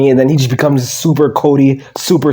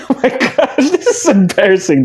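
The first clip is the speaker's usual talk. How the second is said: laughing; 5 semitones higher than usual. Real, not acted. Laughing at Cody.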